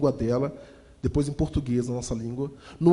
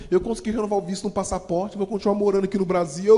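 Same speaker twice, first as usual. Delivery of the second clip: crying; 5 semitones higher, 4 dB louder than usual. Real, not acted. Emotional reunion, voice cracking.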